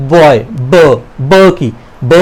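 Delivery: बॉय said, then ब clipped off alone; teacher pulling the ब sound out of बॉय; isolating the b sound. Shown as a demonstration. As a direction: split off the ब from बॉय. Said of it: "beginning में कौन सी sound".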